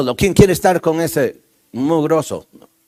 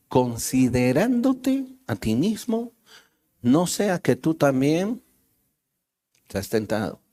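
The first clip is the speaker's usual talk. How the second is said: softer, slow, inward reading of the verse; hushed scripture reading; 5 dB quieter, slower than usual. Acted. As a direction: let the warning sink in quietly.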